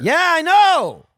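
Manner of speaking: high, loud, drawn-out laughing yes; laughing shriek. Real, not acted. Host squeals agreement at the office mix-up, laughing. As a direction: squeal it out while cracking up.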